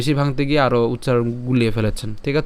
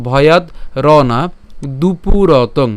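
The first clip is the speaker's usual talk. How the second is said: word by word with small gaps; broken into parts; 4 dB louder, much slower than usual. Shown as a demonstration. Teacher breaks the verse up for learners, piece by piece. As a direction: split ভয়াদ / র না / দুপুরতং, each distinct. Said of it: "উচ্চারণ সুবিধার জন্য".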